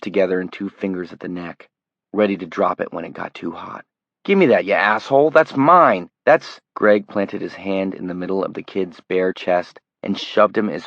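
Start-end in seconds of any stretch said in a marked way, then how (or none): 4.2-6.6 loud, fast, higher furious yelling; furious shout. Acted. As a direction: scream for your shirt back. Kid shouting over burning shirt.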